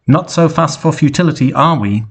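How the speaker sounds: high villain shout at the fleeing car; mock shout from a robot head. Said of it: "shouted at them".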